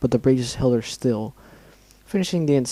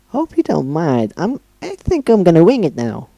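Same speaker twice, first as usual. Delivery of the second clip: laughing; 5 semitones higher, 3 dB louder than usual. Acted. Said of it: "Pinkie laughed".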